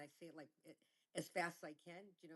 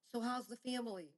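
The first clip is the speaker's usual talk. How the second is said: fake friendly; 6 semitones higher, 8 dB louder than usual. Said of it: "you gotta go".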